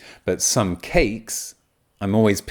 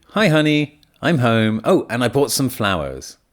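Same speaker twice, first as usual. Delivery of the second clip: lightly acted cheery homecoming, higher and louder opening; neutral greeting example; 4 semitones higher, 4 dB louder than usual. Speaker greets honey on coming home, neutral greeting example. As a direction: call out a casual hello on arriving. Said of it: "a simple example would be".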